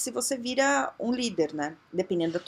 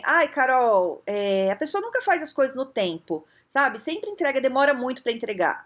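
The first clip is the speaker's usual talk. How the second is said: whiny complaint; 3 semitones higher than usual. Retold or imitated. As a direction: moan it like a fed-up coworker. Funcionário reclamando da equipe. (reclamação chorosa, voz mais aguda)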